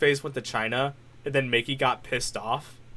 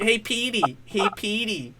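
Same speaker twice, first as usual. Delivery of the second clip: higher, teasing nickname call; mocking call; 6 semitones higher, 3 dB quieter, slower than usual. Friend replaying the nickname tease, high mocking call. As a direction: pitch it up, falling on the name. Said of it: "it's like".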